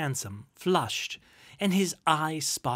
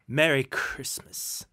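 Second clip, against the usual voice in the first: slow, louder scoff on the greeting; scornful echo; 5 dB louder than usual. Acted. Uncle repeating his nephew's greeting, measured scorn. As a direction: throw the greeting back slowly, with scorn.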